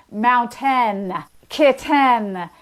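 "mountain" and "kitten" with a hard, over-clear t; hypercorrect T. Shown as a demonstration. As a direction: overpronounce the t in "kitten". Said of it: "hypercorrect version".

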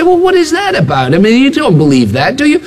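mock-incredulous sceptic; sceptical questioning. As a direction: voice a doubter who can't believe it. Voicing sceptical people questioning the miracle.

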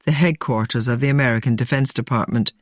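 measured scripted news narration; documentary narration. A narrator's reading. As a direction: read it as a sober documentary link. Presenter reads scripted narration.

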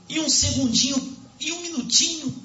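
high-pitched, fervent sermon delivery; impassioned preaching. Real, not acted. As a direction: preach it urgently to the congregation.

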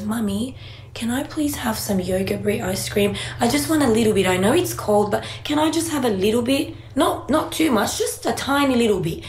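a lightly voiced small boy, sweetly begging; imitating son pleading. Son asking mummy for ice cream, mild pleading child voice.

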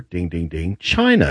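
game show answer. Pretend. Quiz-answer bell gag.

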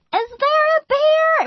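put-on high, slow small-child voice; imitating a toddler wondering about the bear; child's question. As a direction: ask it like a curious toddler. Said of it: "our son, who's looking around going".

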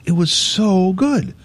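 awed whisper. Real, not acted. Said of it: "you can hear it in my voice".

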